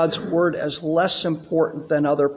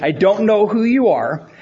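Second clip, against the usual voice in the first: a bit louder, steely movie-hero read; mock action-hero threat; 4 semitones higher, 4 dB louder than usual. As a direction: lean into it like the film. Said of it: "I can't do it with the, the emphasis that he does".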